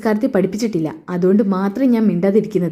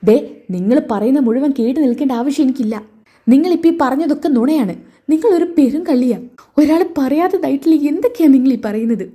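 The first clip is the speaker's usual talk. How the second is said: higher, rising angry retort; acted anger; 4 semitones higher than usual. Nayana angrily calls her mother-in-law a liar, higher, rising retort. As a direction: push back at her, getting angrier. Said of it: "നയനയ്ക്ക് ദേഷ്യം പിടിക്കാട്ടോ".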